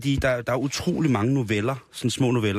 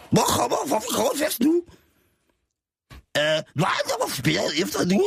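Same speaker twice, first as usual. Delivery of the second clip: high character voice; 14 semitones higher than usual. Acted. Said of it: "forklarede Thor".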